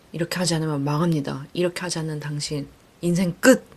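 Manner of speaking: playfully scare the listener like a pushy self-help book; mock threatening. Mimicking a pushy self-help book's threat, mock dire warning. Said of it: "이렇게 막 협박하는 책도 아니에요".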